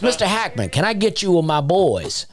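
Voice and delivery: high, eager mock dad voice; dad's eager request. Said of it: "He goes".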